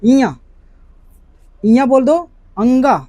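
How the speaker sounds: इया and अंगा said loud and held a little late; drawn-out nasal letters. Shown as a demonstration. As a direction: stretch इया, इया, अंगा out loud through the nose. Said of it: "थोड़ी सा late लगा करके बोलना".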